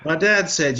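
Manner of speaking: punchy loud narration; loud emphatic setup. Real, not acted. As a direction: hit "dad" hard. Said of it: "loud setup".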